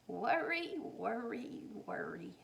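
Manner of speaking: a grandmother sighing worry, worry, worry, dying away; grandmother fading. Acted. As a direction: let the three worries sink and trail off. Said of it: "said her grandmother".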